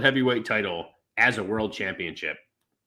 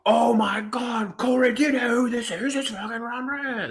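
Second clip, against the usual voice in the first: bad Irish accent; 10 semitones higher than usual. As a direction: ham up a clumsy Irish accent for a commentator. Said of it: "That was a bad Irish accent".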